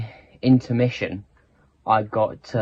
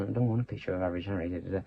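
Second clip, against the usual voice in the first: a bit rude; 5 semitones lower, 11 dB quieter, much faster than usual. Retold or imitated. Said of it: "a bit rudely".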